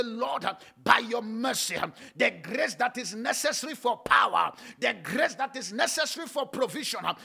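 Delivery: driving, rhythmic Pentecostal prayer; relentless, forceful prayer chant; full-force preaching. Real, not acted. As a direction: punch each phrase with an "uh" at the end. Leads fervent congregational prayer.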